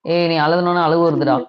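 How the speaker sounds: low, gentle hushing; consoling. Real, not acted. Comforting a tearful younger brother-figure, low and tender.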